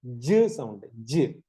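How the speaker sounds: low, isolated "ജ്", a j with a short neutral vowel; letter sound ജ്. Shown as a demonstration. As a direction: say "ജ്" as a phonics sound, dropped in pitch. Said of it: "ജെയുടെ ശബ്ദം എന്താ".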